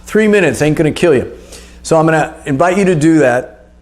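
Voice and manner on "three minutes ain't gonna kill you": urging on. Retold or imitated. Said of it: "I'm like".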